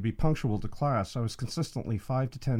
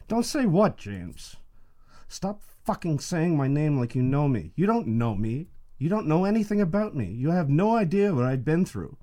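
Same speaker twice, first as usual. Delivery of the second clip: sharp questions rising to a high, loud shout; angry outburst; 5 semitones higher, 4 dB louder than usual. Acted. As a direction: rage at the teacher, louder and higher as you go. Acted quarrel, rising to shouting.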